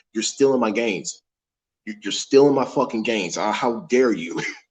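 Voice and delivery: ordinary talk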